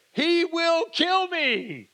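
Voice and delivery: high, slow, hammed-up terrified whine; playfully mocking his fear. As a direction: wail it like a scared servant. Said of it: "he's obviously afraid".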